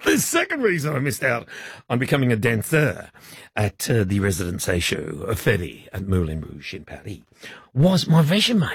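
mock French accent, halting phrases; deliberately badly faked French accent; thick French accent. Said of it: "French accent".

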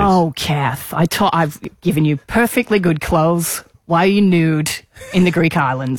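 light imitation of a Canadian mum's accent, mildly scolding; a hint of Mum's Canadian accent, gently telling off her daughter. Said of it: "in your mum's accent".

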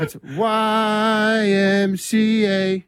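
high, slow song chant; demo the song slowly. Shown as a demonstration. Showing the mates his version of the song, high and slow. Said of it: "You do it".

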